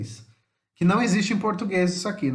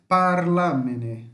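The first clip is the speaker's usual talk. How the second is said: slow, stretched-out "Parlamene", "Abitano"; careful demonstration; much slower than usual. Shown as a demonstration. Teacher giving hard-to-say Italian examples, careful demonstration. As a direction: sound out "Parlamene" and "Abitano" with a long first part. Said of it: "pra você acertar a sílaba tônica".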